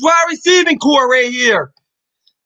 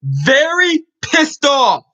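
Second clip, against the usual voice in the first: slow, angry shout; much slower than usual. Real, not acted. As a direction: drag it out in real anger. Angry fan rant opening.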